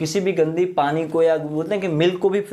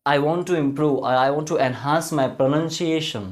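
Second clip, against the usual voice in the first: slow quoted learner; 3 semitones lower, much slower than usual. Retold or imitated. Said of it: "कुछ लोग बोलते हैं ना".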